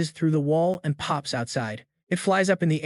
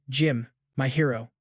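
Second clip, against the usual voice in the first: lightly voiced thankful sigh; understated relief and thanks; grateful; 3 semitones lower than usual. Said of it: "All grateful".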